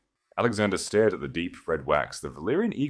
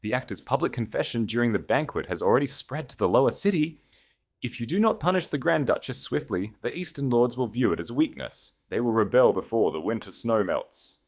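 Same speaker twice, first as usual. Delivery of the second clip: higher, insistent official voice; dry, unrelenting chancellor; 6 semitones higher than usual. A narrator's reading. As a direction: press relentlessly, never let up. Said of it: "his voice dry and unrelenting".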